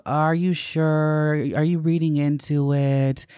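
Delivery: a hint of a patronizing friend brushing it off; doubting straight people. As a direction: mildly imitate dismissive disbelief. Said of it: "this energy of".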